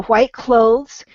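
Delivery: "clothes" drawn out slowly with a soft th before the z. Shown as a demonstration. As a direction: say "clothes" slowly, long O, gentle th. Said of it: "a softer T H sound".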